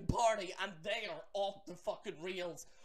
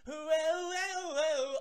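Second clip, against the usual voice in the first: higher, louder whoas; mock excited whoa; 7 semitones higher, 6 dB louder, much slower than usual. Vlogger mimics screaming fangirls, high and excited. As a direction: cheer it up like a screaming fan.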